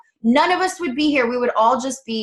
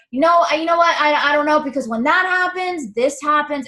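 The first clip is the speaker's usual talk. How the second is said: higher, mock defensive protest; argumentative; 4 semitones higher than usual. Coach mimicking clients rationalizing away an idea, argumentative. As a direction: talk back as if refusing the idea. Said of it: "we start to be argumentative with it".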